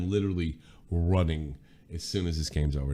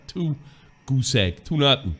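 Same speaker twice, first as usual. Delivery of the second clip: American way, loud: "Two nothing"; standard american accent; 7 semitones higher, 7 dB louder than usual. Shown as a demonstration. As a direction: say "nothing", not "nil", in American English. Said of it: "I'm not gonna lose my accent to these Euros".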